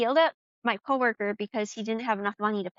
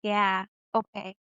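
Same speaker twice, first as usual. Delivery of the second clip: candid barista; 4 dB quieter than usual. Pretend. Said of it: "for an authentically me reaction".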